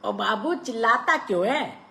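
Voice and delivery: Pathan, startled awake, answers the clerk loudly; startled retort. A narrator's reading. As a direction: snap back, woken with a jolt. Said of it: "चौंक कर बोला".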